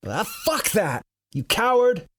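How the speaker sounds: indignant retort. Acted. Narrator rebukes fleeing friend.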